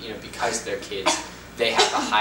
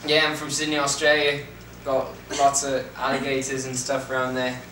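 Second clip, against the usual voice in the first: put-on Australian accent; 2 semitones higher than usual. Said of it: "can you do different accents?".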